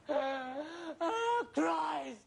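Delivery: crying out in mock terror, rising to a shout; panicked wail. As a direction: wail it like the dread has hit. Panicking about the fear.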